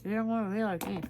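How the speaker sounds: talking around a pen held in mouth; words muffled by a pen between lips. Real, not acted. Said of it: "pin in my mouth".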